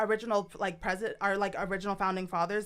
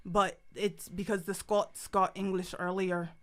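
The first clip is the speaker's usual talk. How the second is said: slow, lightly done Irish accent; measured, with a touch of Irish. Shown as a demonstration. Explaining Scottish roots to hosts, Irish accent. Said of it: "an Irish accent".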